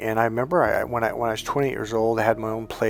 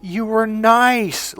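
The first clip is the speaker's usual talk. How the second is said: higher, very slow sneering mother; mock contempt; 10 semitones higher, 4 dB louder, much slower than usual. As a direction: sneer the word nice slowly, higher. Mother mocking his niceness.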